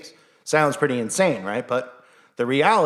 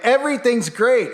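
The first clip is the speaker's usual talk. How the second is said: higher, forced cheerful mock voice; fake-smile cheer; 10 semitones higher, 4 dB louder than usual. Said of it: "put on a fake smile and be like".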